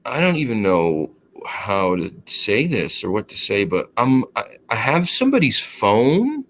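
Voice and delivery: lightly voiced woman leaving an awkward message; hesitant mock female voice, questions lifting up; imitated female caller. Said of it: "I hear this female's voice".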